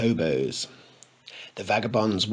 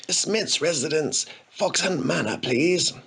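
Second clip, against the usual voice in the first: creaking, hoarse voice; a worn, creaky voice; 5 semitones higher than usual. Acted. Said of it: "Harry's voice creaked".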